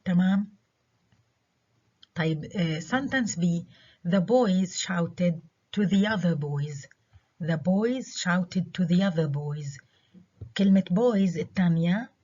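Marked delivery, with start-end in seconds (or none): 4.1-6.9 put-on other stressed, second boys reduced. Shown as a demonstration. Teacher demonstrating contrast on other. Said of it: "اللي عليها stress هي other". 7.4-9.8 put-on other stressed, second boys reduced. Shown as a demonstration. Teacher repeating the sentence with other stressed. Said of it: "اللي عليها stress هي other".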